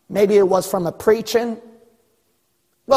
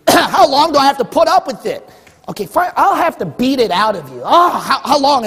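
raised, louder voice of a fed-up parent; exasperated God; 5 semitones higher, 4 dB louder than usual. Acted. God scolding a whining believer, loud exasperation. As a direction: act out losing all patience.

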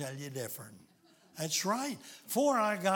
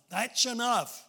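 second "enough" louder and higher; commanding; 6 semitones higher, 6 dB louder than usual. Retold or imitated. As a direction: call out "enough" with force. God stops Abraham, repeated louder.

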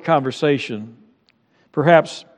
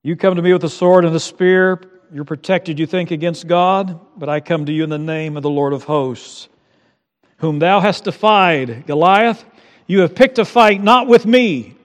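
bold defiant David. Acted. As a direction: declare it boldly to the giant. David's declaration to Goliath.

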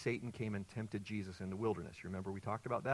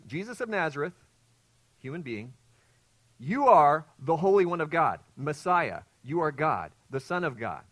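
higher, louder cry of recognition; demon crying out; 4 semitones higher, 10 dB louder than usual. Retold or imitated. Preacher voicing the demon recognizing Jesus. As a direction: proclaim it like the spirit shrieking. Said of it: "He s-, recognizes".

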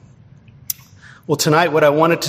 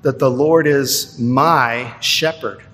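slow, leaning on "my" shepherd; personal emphasis; slower than usual. Shown as a demonstration. Pastor stresses the personal word to the congregation. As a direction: make "my" personal and weighty. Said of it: "puts it so personally, individually".

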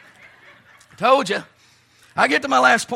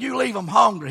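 put-on South Carolina accent. Old preacher from South Carolina advising a young one, South Carolina accent. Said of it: "He's from South Carolina".

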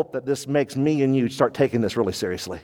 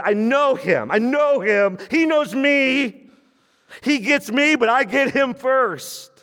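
intimate knowing; 8 semitones higher than usual. Retold or imitated. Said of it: "No, it's".

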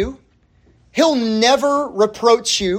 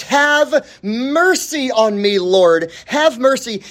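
slow, raised-pitch plea; pleading; 4 semitones higher, slower than usual. Acted. Woman coming to Jesus for mercy, pleading. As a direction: draw out the cry for mercy. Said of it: "she comes to Jesus and she says".

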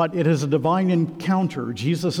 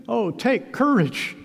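much higher, cheering urging; eager encouragement; 7 semitones higher, slower than usual. Acted. Crowd now encouraging blind Bartimaeus, eagerly. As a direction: urge him up to his feet. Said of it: "those around him change their tune".

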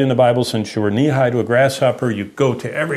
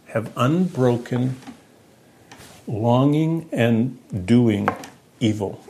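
slow, with long pauses between the words; slow, drawn out; slower than usual. Shown as a demonstration. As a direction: let each word land on its own: unbroken, longing, doing, evil. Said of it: "Longing for evil and doing evil".

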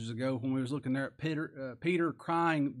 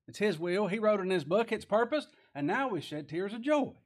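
higher, rising preacher's cadence; emphatic preaching; 6 semitones higher, 4 dB louder than usual. Real, not acted. Preacher telling believers their tears have purpose, emphatic preaching. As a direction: build the points up for the congregation.

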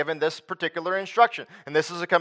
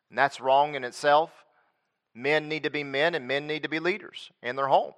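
normal talking voice

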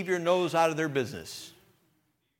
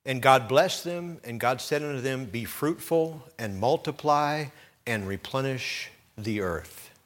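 scripture reading. Acted. Reads Genesis aloud.

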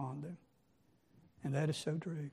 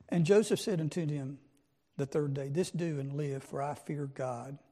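reading the King James text out, measured and solemn; scripture reading. Acted. Preacher reads Joseph's words to the congregation, solemn scripture reading. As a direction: read the old verses with weight, like a preacher at the pulpit.

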